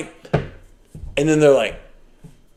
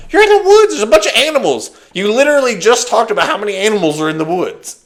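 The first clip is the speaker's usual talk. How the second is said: exasperated retort; 4 semitones higher, faster than usual. Retold or imitated. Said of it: "I'm like".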